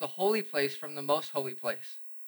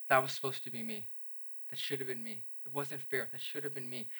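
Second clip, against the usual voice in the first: remorseful confession; 6 dB quieter than usual. Retold or imitated. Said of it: "we remember".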